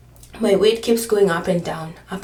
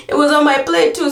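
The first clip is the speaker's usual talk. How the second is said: louder and higher, exasperated; emphatic exclamation; 7 semitones higher, 6 dB louder than usual. Real, not acted. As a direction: throw the line out in disbelief.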